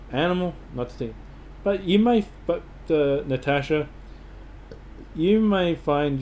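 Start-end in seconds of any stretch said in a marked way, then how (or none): 0.1-1.1 quick repeat with "animal" picked out; stress on animal. Shown as a demonstration. Repeating the warning to a visitor, stress on "Animal". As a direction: lead with a stressed "Animal", then "not the team" quickly. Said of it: "emphasize on the animal".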